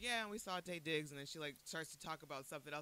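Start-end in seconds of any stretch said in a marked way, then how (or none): 0.0-1.1 casual mention, glossed right over; offhand retelling. Retold or imitated. Sister mentioning a star sighting in passing, offhand. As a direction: imitate a sister dropping it in passing. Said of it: "I just gloss right over it".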